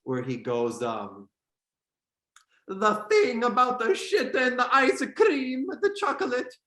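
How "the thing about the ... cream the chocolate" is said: put-on Jared Leto Italian accent. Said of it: "Jared Leto's, uh, Italian accent".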